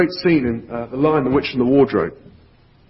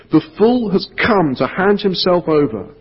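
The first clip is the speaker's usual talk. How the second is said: high, loud mocking witch; the White Witch gloating at the captured lion; witch crying out; 6 semitones higher, 4 dB louder than usual. A narrator's reading. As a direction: sneer it with cold triumph, higher than normal. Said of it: "she cried".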